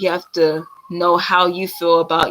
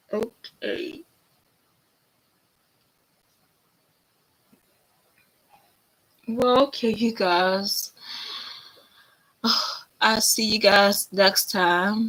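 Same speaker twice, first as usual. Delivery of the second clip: tearful voice, higher and quieter; 4 semitones higher, 4 dB quieter than usual. Saying goodbye to viewers after admitting tears: crying while talking. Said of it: "I feel like I'm crying again".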